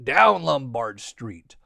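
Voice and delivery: low, slow descending phrase; drawn out, dropping low; sliding downhill. A narrator's reading. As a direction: let the voice slide down the street. Trolley going down the hill.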